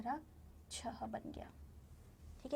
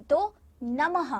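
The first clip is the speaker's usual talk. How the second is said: drawn-out demo; 5 dB louder, much slower than usual. Shown as a demonstration. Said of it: "देखिए कहाँ पर आपको सुनाई दे रही है ध्वनि".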